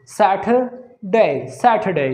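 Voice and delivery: सैटरडे broken up slowly, British silent r; British accent. Shown as a demonstration. Teacher drilling it for students, British accent. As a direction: repeat सैटरडे as British "sat-uh-day", first slowly. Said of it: "British में बोलेंगे हम".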